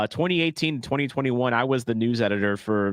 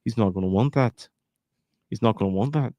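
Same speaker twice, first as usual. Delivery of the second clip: Tommy Shelby voice. Pretend. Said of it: "Tommy Shelby coming back right here".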